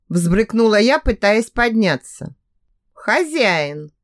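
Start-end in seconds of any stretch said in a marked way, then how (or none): 2.9-3.9 put-on firm command «Хозяин!» to the girl; stern reminder. A narrator's reading. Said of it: "строго напомнил Эрик". (строго, с лёгким мужским голосом: «Хозяин!»)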